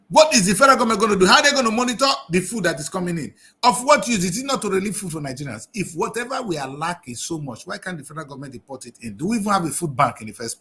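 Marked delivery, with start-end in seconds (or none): 0.1-5.7 louder, fast, heated questions fired off; really angry outburst at the government's plan; angry rant. Real, not acted. Blogger venting at the federal government, fast and loud. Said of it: "I'm really angry right now".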